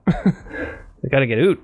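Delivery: slow, drawn out "Oot" with a rising tune, like "oot" for out; mocking Canadian accent. Teasing a Canadian guy's "Oot", slow and rising. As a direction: stretch "Oot" long and let it rise, teasing. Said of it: "they gotta get Uda here".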